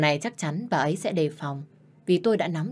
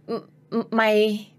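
sputtering rage; 4 semitones higher, 3 dB louder, slower than usual. Acted. Stepmother speechless with rage.

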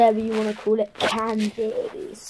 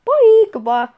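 chewing a gummy sweet; talking while chewing candy; mouth full; 7 dB louder than usual. Real, not acted. Seen 4: Puts orange gummy in mouth, chews while speaking.

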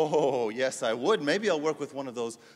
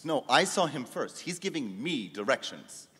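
eager claim. Acted. Rival coder claiming the local's help, eager and insistent. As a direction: jump in first, insistent.

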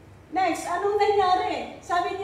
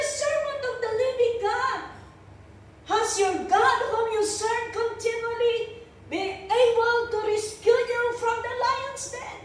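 higher, pleading call; king asking whether Daniel survived, raised pitch; anguished call; 5 semitones higher than usual. Retold or imitated. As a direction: ask it hoping for an answer. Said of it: "in an anguished voice".

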